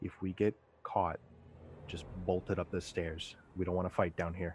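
quiet muttering under the breath. Warning a companion while sneaking forward: under the breath. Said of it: "under my breath just kinda say".

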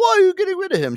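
mock, very high-pitched, surprised and upset. Retelling the host's reaction to an elimination: imitating a surprised, upset host. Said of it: "so surprised and, like, upset".

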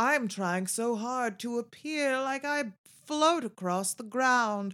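put-on, made-up fancy accent. Mocking guys who try hard to appear refined, the speaker imitates them: put-on fancy accent. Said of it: "I don't know what accent I'm talking in. It's called fancy".

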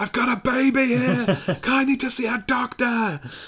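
very high, loud, drawn-out screaming. Retelling how a man screamed at a hospital front desk: retelling screaming at the desk. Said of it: "starts screaming at the woman behind the desk".

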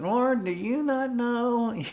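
very high, whiny, nasal complaining tone. Speaker asks if we're whining, then voices Martha: imitating Martha's nasal whine. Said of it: "this kind of nasally whine in Martha's voice".

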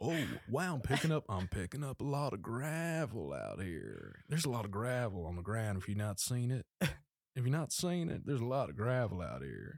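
rough, gravelly put-on voice. Joking about microphones, doing a Matthew McConaughey impression. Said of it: "Matthew McConaughey".

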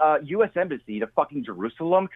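ordinary delivery

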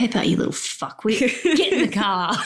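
cartoon father voice in an Australian accent. Doing the requested Peppa Pig impersonation in Australian, as the daddy: Australian Peppa Pig dad voice. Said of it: "give me a pepper pig impersonation in australian".

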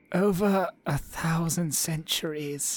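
creepy put-on cartoon voice. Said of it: "It's very salad fingers".

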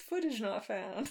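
put-on voice-over narrator voice. Joking along with the other speaker about an episode: narrator voice. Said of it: "Narrator voice".

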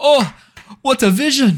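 excited, thrilled orc voice. Voicing an orc who is very excited, clapping: excited orc voice. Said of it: "this lad steps back and claps and goes".

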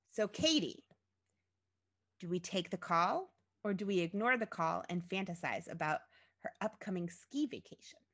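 usual speaking voice

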